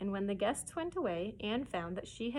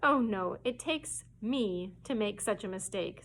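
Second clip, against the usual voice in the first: forlorn. Acted. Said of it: "said Anne forlornly".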